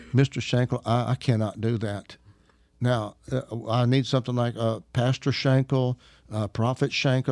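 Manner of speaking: imitating a caller haltingly objecting; mildly flustered, with uhs and restarts; embarrassed, awkward. Caller pleads with preacher for a title, mildly awkward. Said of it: "so much fun with her embarrassment, awkwardness".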